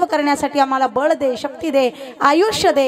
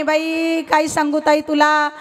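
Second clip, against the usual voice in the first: mock tearful grandmother; slower than usual. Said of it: "म्हातारीनं अजूनच डोळ्याला पदर लावला".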